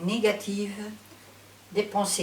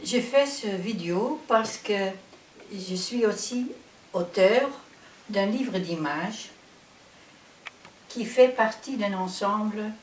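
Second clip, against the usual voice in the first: Dutch accent in French. Real, not acted. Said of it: "Je suis néerlandophone, alors je m'excuse si mon français n'est pas parfait".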